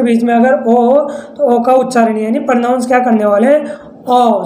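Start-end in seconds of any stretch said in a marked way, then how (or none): 4.0-4.4 O said as an open "aw"; short O sound. Shown as a demonstration. Teacher showing students the short vowel, ओ as open "aw". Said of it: "short sound करेंगे".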